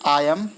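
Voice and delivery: "आयम" sounded out as a separate chunk; teacher isolating "आयम" from the word; syllable-split demo. Shown as a demonstration. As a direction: say "आयम" alone, then stop. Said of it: "ये word को तोड़ती है".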